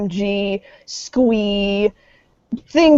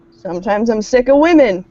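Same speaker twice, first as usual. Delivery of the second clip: punchier, louder exasperated line; louder mock-dramatic; 4 dB louder than usual. Shown as a demonstration.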